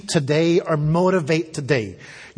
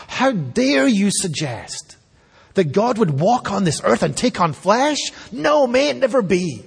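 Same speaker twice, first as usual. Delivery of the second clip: higher, rising indignant protest; mock outrage; 4 semitones higher than usual. Preacher voicing outraged Jewish listeners, mock indignant. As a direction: voice an appalled believer, pitch climbing. Retelling offended Jews' response.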